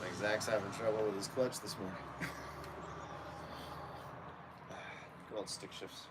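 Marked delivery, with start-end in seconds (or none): 2.0-5.2 long, soft breathy laugh; amused laugh. Real, not acted. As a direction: laugh lightly at a friend's trouble. Laughs at joke about Zach's clutch.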